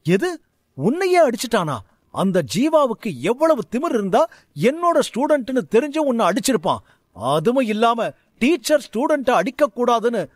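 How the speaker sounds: an enraged teacher vowing revenge; furious. Acted. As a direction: rage at the rival teacher. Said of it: "சாரதி மிகுந்த கோபமடைந்து".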